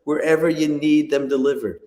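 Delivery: echoey, like in a cave. Real, not acted. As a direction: voice echoing off cave walls. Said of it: "you sound a little bit like you're in a cave".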